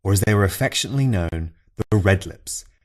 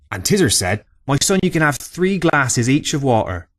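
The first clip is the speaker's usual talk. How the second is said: put-on louder, higher old fisherman spinning a yarn; old Cornish fisherman; 4 semitones higher, 3 dB louder than usual. Old man telling visitors a tale over a pint, loud rustic yarn-spinner. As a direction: bellow it like an old salt telling a tall tale in the pub.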